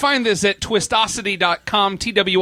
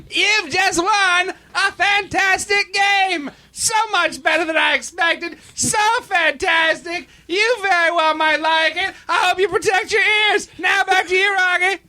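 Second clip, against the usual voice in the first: perky game show announcer; 11 semitones higher than usual. Pretend. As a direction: sell it like a cheesy TV host. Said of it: "overly perky game show announcer".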